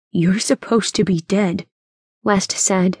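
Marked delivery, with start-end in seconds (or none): 0.1-1.7 mildly shaken voice; shaky. Acted. West faces his grandfather, slightly shaky. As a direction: say it with a touch of shock. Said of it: "his voice shaky".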